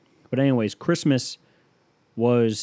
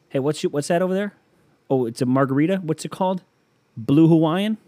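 eager drinker; 6 semitones higher, 4 dB louder than usual. Pretend. Eager drinker spotting cocktails.

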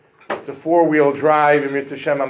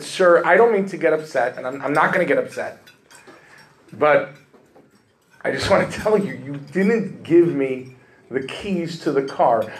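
forced calm complaint. Retold or imitated. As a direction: keep it polite through clenched patience. Polite but tense complaint on phone.

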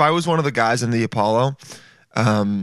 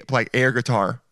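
usual speaking voice

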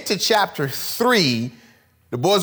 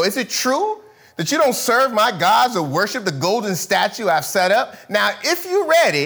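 raised, commanding king's demand; furious king; 3 semitones higher than usual. Acted. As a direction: read it as an angry king. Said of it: "Nebuchadnezzar was furious".

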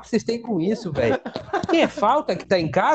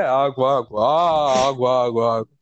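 very low, monotone repeated call; water seller; 8 semitones lower, slower than usual. Retold or imitated. Water vendor at the cathedral, low droning call. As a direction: drone the word like a bored hawker's loop. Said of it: "substituía as palavras por água".

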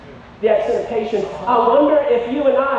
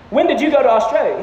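insistent question. Retold or imitated. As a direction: press for an answer, mock-incredulous. Question repeated after "Seriously, bro.

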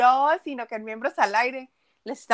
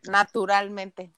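drawn out; 2 semitones lower, slower than usual. Shown as a demonstration. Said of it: "muy naturalmente".

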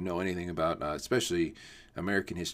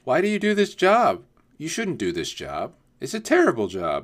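mock scolding mom, higher and louder at the start; a light, higher impression of a disapproving mom; imitating a mom; 7 semitones higher, 9 dB louder than usual. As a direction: play a nagging mom asking why. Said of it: "And they're all like".

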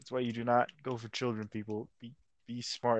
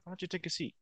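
Chris Hansen; 2 semitones higher, 6 dB quieter, much faster than usual. Retold or imitated. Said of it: "Chris Hansen walks out and he's like".

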